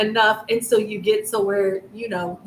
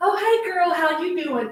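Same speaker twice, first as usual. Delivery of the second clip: put-on, high, gushy, chummy voice; 8 semitones higher than usual. Acting out a greeting never given to someone who disrespected: mock chummy kiki-ing greeting. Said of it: "you think that I'm gonna go".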